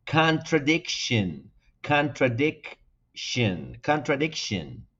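contradiction drawn out slowly, repeated; English pronunciation demo. Shown as a demonstration. Teacher repeating contradiction for learners at home, slow. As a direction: model Contradiction slowly, stress on dic. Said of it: "Cómo lo dirían ustedes en casa".

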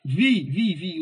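"vi" repeated alone with emphasis; punchy repeated "vi"; stressed syllable isolated. Shown as a demonstration. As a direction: pick out "vi" and stress each one. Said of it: "O vi é mais forte".

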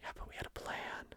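retold objection under the breath; barely voiced, as a small mock protest; whispered protest. Husband voicing the couple's reaction to lost plans, whispered.

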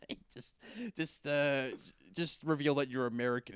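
high, mocking voice of the filmmakers; mock filmmakers' suggestion. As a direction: lampoon the writers' lazy fix.

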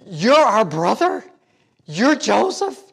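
stunned disbelief. Retold or imitated. Voicing stunned brothers.

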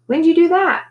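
high, loud incredulous question; surprised question. A narrator's reading. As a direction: ask it in astonishment. Character surprised by his scheme.

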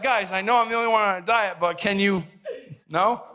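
hammed-up helpless appeal; mock pleading. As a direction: plead with the family, playfully exasperated. Acts out pleading with family.

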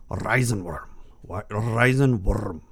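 put-on German accent, drawn out; attempted German pronunciation. Shown as a demonstration. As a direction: ham up the German word, slowly. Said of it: "do my best to pronounce it by its German".

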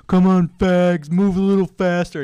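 mock drill shout. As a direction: shout it like a sergeant running past with a log. First sergeant shouting at PT.

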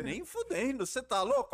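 high, loud incredulous outburst; outraged retort. Retold or imitated. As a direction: blast it back, no way. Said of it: "eu fiquei assim".

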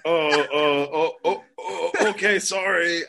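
spooked. Retold or imitated. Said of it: "I feel like I just got yelled at".

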